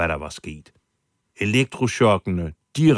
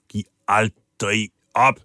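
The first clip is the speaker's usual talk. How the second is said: mild retold shout; 2 semitones higher, 4 dB louder than usual. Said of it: "råbte han til sine kammerater".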